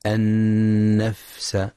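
النفس with a breathy, lengthened fa, very slowly; whispered fa. Shown as a demonstration. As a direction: say النفس slowly, letting air escape on the fa. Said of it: "لهمس الفاء الساكنة".

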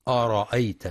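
أرأيت with the hamza darkened; wrong reading. Shown as a demonstration. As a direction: say أرأيت the mistaken way, hamza heavy. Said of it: "فلا يقرأ".

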